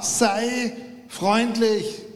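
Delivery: slow, drawn-out voice from above; gentle inner voice. Retold or imitated. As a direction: speak it slowly like God whispering a hint. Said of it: "hört er eine Stimme". (langsame, sanfte Stimme Gottes)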